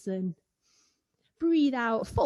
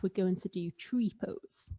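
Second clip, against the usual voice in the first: whisper; 6 dB quieter than usual. Real, not acted. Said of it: "whispered instruction".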